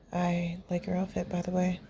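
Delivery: softly, with a smile; soft compliment. Acted. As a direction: say it gently, smiling. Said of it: "hear the smile in his voice".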